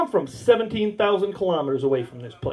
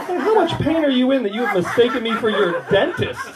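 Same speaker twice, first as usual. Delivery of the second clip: said through laughter; laughing quote; 4 semitones higher than usual. Retold or imitated. Patient teasing the chiropractor, laughing. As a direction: quote her as you laugh.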